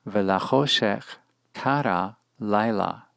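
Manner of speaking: "kara laila" with both words accented on the first syllable; retracted accent. Shown as a demonstration. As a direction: read "Velachoshech kara laila" deliberately, stressing "ka" in "kara" and "lai" in "laila". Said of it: "we find it vocalized as follows".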